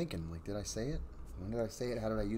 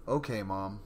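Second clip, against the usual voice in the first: put-on toned-down little girl. Shown as a demonstration. Second take of the daughter's reply, lightly voiced. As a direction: redo the girl's line, understated. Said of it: "That's better".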